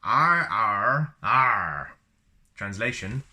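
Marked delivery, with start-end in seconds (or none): 0.0-1.9 Wookiee roar. Shown as a demonstration. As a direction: growl it out like a Wookiee.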